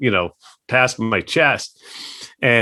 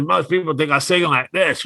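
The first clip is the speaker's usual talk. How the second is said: holding nose; 4 semitones higher than usual. Retold or imitated. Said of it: "He's holding his nose".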